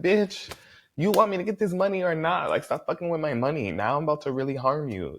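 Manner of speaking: mock C K. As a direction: snap at the lizard like it's stealing your money. C K yelling at lizard.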